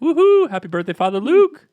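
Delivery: very high-pitched, loud whooping cheer. Cheering for father luke's birthday this sunday, really high voice. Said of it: "my voice got really high there".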